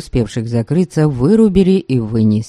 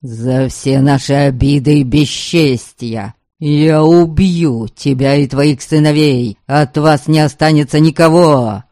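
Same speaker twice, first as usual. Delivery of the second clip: berserk rage. Acted. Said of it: "В ярости кричал он".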